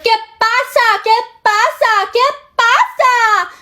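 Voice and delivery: high, slow, mocking cry of que pasa; mocking yell. Drunk girl taunting the friends in Spanish, high mocking yell. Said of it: "Like, yelling it like, like that".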